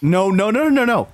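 laughing off the four-hour guess, building up; excited denial. Real, not acted. Denying four-hour game, excited.

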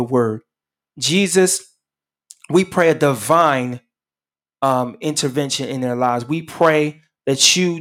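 earnest prayer voice that keeps calling on the Lord; closing prayer. Acted. Radio pastor prays over his listeners in earnest prayer. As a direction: plead for the listeners, phrase by phrase.

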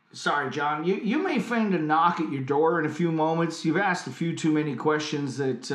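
put-on loosely American accent, hesitant warning; Neil Armstrong. Astronaut warns of a knock at the door, faked American accent. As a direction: warn him as a mock American astronaut. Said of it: "my American accent".

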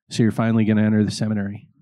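fast, knowing reply; a pastor who saw it coming. Retold or imitated. The pastor teasingly answers the nervous young man, knowing. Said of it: "And he goes".

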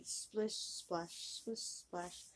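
hushed, fading sound words; soft splish splash. A narrator's reading. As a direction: let it drip away softly. Narrating frog creeping.

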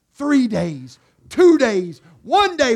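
rising countdown, day by day; rising countdown chant; countdown building. Acted. Preacher counts down.

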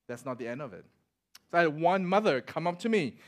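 ordinary delivery

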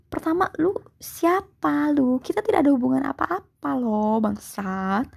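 real irritation, held short of shouting; frustrated. Real, not acted. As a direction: tell them off in exasperation. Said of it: "frustasi banget aing jadinya".

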